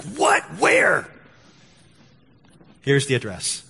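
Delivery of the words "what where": surprised police. Retold or imitated. Police suddenly interested on phone.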